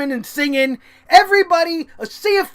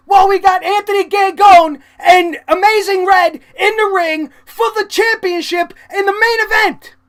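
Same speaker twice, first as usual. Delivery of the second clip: heated rant; 5 semitones higher, 5 dB louder than usual. Real, not acted. Ranting about idiots in front.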